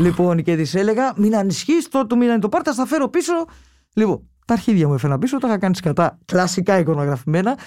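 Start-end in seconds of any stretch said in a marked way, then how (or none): 1.2-3.3 higher-pitched promise, rising as it goes; retold reassurance. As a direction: lightly act out placating your mother. (καθησυχαστική υπόσχεση, σε αναπαράσταση)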